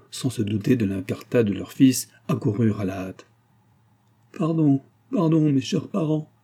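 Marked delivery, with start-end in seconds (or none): 4.4-6.3 high, pleading outcry; s'écrie, implorante. A narrator's reading. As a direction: beg their forgiveness in distress. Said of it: "s'écria Antonine". (supplication aiguë et éplorée)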